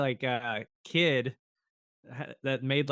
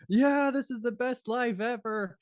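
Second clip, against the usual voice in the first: over-the-top delight; 10 semitones higher than usual. Retold or imitated. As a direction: gush like it's the best day ever. Man in box over the top.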